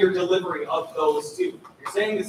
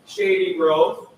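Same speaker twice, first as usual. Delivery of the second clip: sleepy Saturday-morning read; tired delivery; 6 dB louder, slower than usual. Shown as a demonstration. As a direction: sing it like you're half asleep. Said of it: "This is how we would say it if it was eight thirty".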